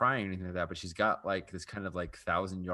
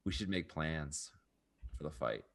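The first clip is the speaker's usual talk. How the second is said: quiet and lost; 4 semitones lower, 6 dB quieter than usual. Acted. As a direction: say it gently, staring off. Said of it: "she's like".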